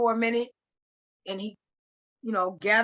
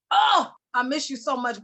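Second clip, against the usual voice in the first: mild mock wail on a higher pitch; imitating screaming; 4 semitones higher, 4 dB louder than usual. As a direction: retell his anguished cry, only lightly raised. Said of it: "he just starts screaming".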